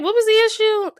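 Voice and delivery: high, loud, baffled squeal of disbelief. Retold or imitated. Host baffled after the feud turns out to be nothing, squealing high and loud. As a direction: throw up your hands in mock confusion. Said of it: "So I'm just like".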